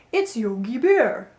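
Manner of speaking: slow, lightly voiced dopey cartoon bear; dopey Yogi Bear. Shown as a demonstration. Coach demonstrating the dopey sound, slow dopey bear voice. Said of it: "like Yogi Bear".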